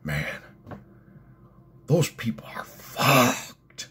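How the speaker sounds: put-on slow, drawn-out Canadian accent with a whispery last word; thick Canadian accent. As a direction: imitate a Canadian, stretching the swear. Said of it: "thick Canadian accent".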